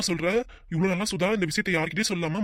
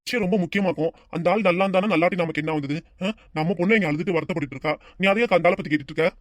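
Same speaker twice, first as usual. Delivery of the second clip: annoyed rebuke; 4 dB louder than usual. Acted. Acted family quarrel, husband rebukes wife.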